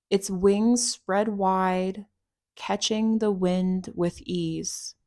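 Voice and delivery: measured meditation voice with long pauses; unhurried, guiding a listener through a visualisation; guided meditation. Acted. Guide leading listeners to picture their hawk, guided meditation.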